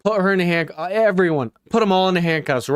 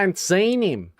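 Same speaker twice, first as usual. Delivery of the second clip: mock Southern accent, a touch higher; imitating a Southern accent; 4 semitones higher than usual. Streamer mimics the suspect in a Southern accent. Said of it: "I love the Southern accent so much".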